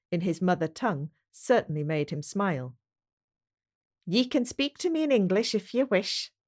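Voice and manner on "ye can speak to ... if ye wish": a Scot lightly putting on his best English, higher; a touch of polite English over a Scottish voice; a Scot trying his best English accent; careful English accent. A narrator's reading. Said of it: "said James in his best English accent".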